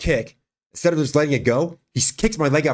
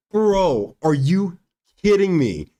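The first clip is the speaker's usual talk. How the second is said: disbelief; 5 semitones higher, much slower than usual. Retold or imitated. Retold disbelief at discovery.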